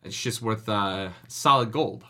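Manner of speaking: hammed-up New Jersey wiseguy come-on; New Jersey goomba accent. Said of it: "used a New Jersey Goomba".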